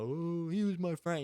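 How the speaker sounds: high, slow mock lament; mock crying. Imitating a grieving film character, mock tearful. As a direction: put on a weepy mourner's voice. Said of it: "one will be crying".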